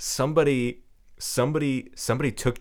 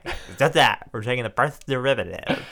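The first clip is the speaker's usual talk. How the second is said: impression of professor; 3 dB louder than usual. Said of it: "please do your impression".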